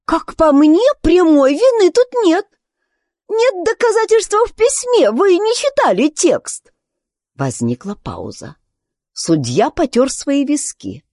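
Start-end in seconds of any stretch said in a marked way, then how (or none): 0.1-6.7 put-on high, louder girlish declaration; Alice speaks up firmly to the whole court; loudly. Alice addresses the court loudly in a high girlish voice. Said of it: "Алиса громко".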